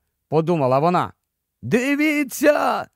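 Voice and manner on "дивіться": high, slow hoarse cry; hoarse shout. A narrator's reading. Rynelf on the bow calling everyone to look, hoarse shout. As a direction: yell out the sighting. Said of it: "закричав хриплим голосом".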